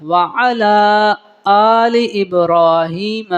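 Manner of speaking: slow, careful Quranic-style chant; slow recitation. Acted. Teacher reciting the prayer slowly for students. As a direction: recite each word slowly, measured.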